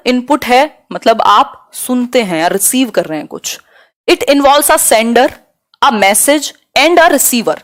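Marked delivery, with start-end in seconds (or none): 4.1-7.6 very slow, word by word; slow teacher dictation to the class. Shown as a demonstration. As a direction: dictate it slowly so students can write.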